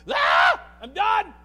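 sudden high shouted outburst; mock scream. Preacher acting out a frustrated person, loud shout. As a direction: scream it like you've hit your limit. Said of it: "tangibly screams".

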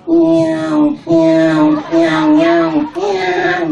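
high meowing cat cries. Retold or imitated. Japanese women making cat sounds in bed, meowing. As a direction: mew like a cat in heat. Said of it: "고양이 소리 낸다".

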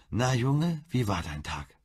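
high, loud call of "Na, Junge"; mother calling out a hearty welcome to her son; hearty greeting. Acted. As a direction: greet him warmly at the door.

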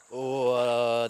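sudden loud startled oh; surprised exclamation. Real, not acted. Sudden step into deep water.

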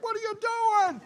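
very high mock shriek without extra volume; squeaky high-pitched impression of a yelling dad; exasperated father. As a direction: imitate dad's distant outraged cry. Father yelling after cows escape.

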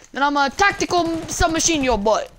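high loud mock threat; hammed-up threat. Threatening an enemy player, hammed-up loud yell. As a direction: bark it like a silly tough guy.

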